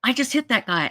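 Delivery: high-pitched mock panic; retold freaking out. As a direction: imitate a man freaking out. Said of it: "Now he's freaking out".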